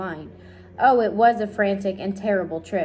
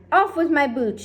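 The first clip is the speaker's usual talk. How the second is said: high loud urgent order; shouted; 7 semitones higher, 5 dB louder than usual. A narrator's reading. Centipede panics about swimming, urgent shout. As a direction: demand help quickly. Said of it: "shouted the centipede".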